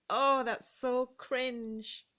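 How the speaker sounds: slow, drawn-out embarrassed groan of words; cringing embarrassment. Acted. Reacting to something that makes you curl up inside, cringing. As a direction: stretch it out, squirming with second-hand embarrassment.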